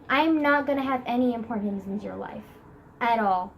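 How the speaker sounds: flat, depressed monotone teacher voice. Retold or imitated. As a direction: drone it like a gloomy teacher. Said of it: "in her depressed, monotone voice".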